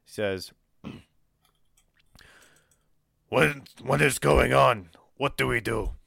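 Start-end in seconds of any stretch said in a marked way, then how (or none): 3.3-5.9 alarmed. Acted. Lundgren bursts in alarmed.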